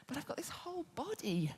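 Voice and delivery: whispering. Real, not acted. Sudden hushed emphasis in talk.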